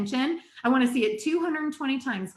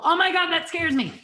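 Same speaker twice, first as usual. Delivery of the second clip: mock scared; 7 semitones higher, 5 dB louder than usual. Voicing a scared audience member.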